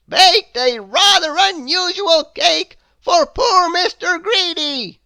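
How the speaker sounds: loom over the culprit as a stern wizard. A narrator's reading. Wizard scolding Mister Mischief, stern and loud. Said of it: "he continued".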